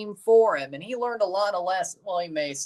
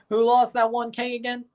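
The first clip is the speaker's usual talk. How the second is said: fake Australian accent; 6 semitones higher than usual. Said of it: "a good Australian accent".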